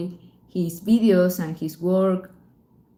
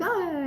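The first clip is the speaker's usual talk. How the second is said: nervous cry; 11 semitones higher, 5 dB quieter than usual. Real, not acted. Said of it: "I just get a little bit nervous".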